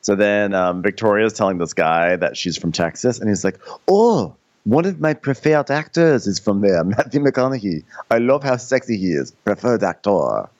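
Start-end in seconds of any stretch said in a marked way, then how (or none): 3.9-10.5 put-on French accent. Imitated French man praising actor.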